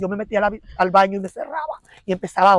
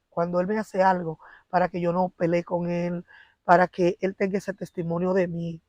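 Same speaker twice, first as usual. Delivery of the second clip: quoted prayer. Retold or imitated. Lightly voiced wife praying to God for her marriage. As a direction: pray it gently, asking God.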